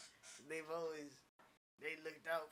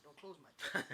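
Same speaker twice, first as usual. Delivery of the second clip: laughing quote; 3 dB louder than usual. Retold or imitated. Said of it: "I said".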